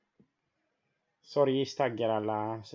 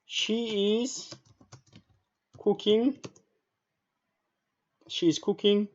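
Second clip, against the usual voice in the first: higher, drawn out in small chunks; slow dictation; 7 semitones higher, much slower than usual. Shown as a demonstration. Teacher writing out an example for students, high slow dictation. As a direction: pause after each chunk, voice held up.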